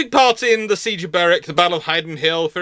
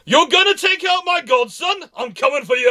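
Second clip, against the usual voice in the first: high mock roar for his godson; hammed-up charge to defend the prince; protective battle shout; 9 semitones higher than usual. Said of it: "where basically goes".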